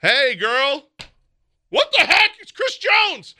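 high, loud, hammed-up creep voice; a shrill, hammed-up stranger voice; mock creepy texter. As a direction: squeal it like a sleazy guy hitting on her. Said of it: "Just like".

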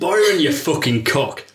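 put-on slow Northern English accent on the insult. A familiar voice from the shadows insults Byron, in a Northern accent. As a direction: lean into the Northern vowels, slow. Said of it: "Can I stick with it".

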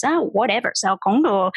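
a touch of brushed-off annoyance, "con" falling; mildly dismissive, as the other one in the dialogue; annoyed whatever. Retold or imitated. Teacher acting out a Vietnamese textbook dialogue reply, mildly annoyed. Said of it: "That sounds quite annoying".

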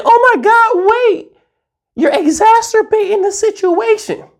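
put-on dramatic girl. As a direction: play a girl butting in, overdramatic. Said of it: "then a girl comes in".

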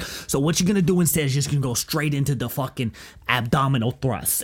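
lightly imitated accented instructor; comic instructor caricature; instructor impression. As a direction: give the instruction in a put-on accent. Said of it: "he was like".

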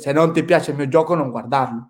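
put-on Italian with marked Swedish accent; lightly put-on Swedish accent in Italian; imitated Swedish accent. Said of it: "su acento".

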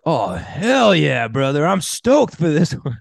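hammed-up hype, high and slow; mock over-the-top excitement, drawn out high; overly enthusiastic Justin. Host imitates co-host replying to the episode outline, overly enthusiastic. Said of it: "he's just overly enthusiastic".

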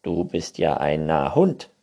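calling out. A narrator's reading. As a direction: call out the discovery. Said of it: "rief das Neinhorn da". (lauter Ausruf)

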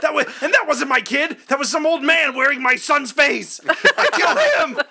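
lightly voiced crazed mother, giggling; mock Madeline. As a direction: play the unhinged mother, laughing. Voicing Madeline, laughing.

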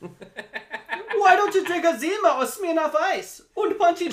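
shrill mocking falsetto, loud; mocking high voice. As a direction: squeal it out high to tease a slow drinker. Continuing the mocking party voice.

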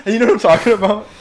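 put-on high, fast, loud pinched kid voice. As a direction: squeeze it up like a whiny kid. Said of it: "it's like the kid's voice".

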